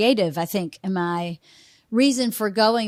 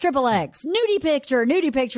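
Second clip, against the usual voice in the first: street hawker calls; 3 semitones higher than usual. Retold or imitated. Street hawkers calling at Port Authority.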